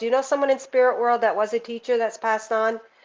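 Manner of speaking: plain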